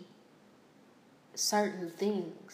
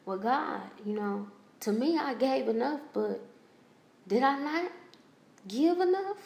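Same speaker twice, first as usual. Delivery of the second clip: distraught question rising to a higher cry; pleading with God; 5 semitones higher than usual. Retold or imitated. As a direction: voice climbing higher and higher as she pleads.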